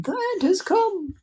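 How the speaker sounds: high breathy whisper of doom; terrified whisper. A narrator's reading. Miss Spider fearing the crash, whispered dread. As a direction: gasp out the end.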